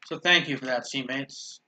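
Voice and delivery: dry, understated sarcastic thanks; deadpan mock gratitude. Real, not acted. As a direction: thank them sarcastically, letting it drop away at the end. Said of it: "That's me being sarcastic".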